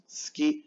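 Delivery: suki squeezed to "ski"; long S straight into "ki" in suki; silent U. Shown as a demonstration. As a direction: drop the U from suki. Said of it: "La U casi no suena".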